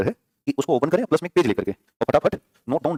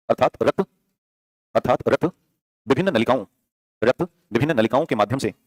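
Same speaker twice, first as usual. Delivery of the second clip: dictating. Shown as a demonstration. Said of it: "नई line से लिखिएगा".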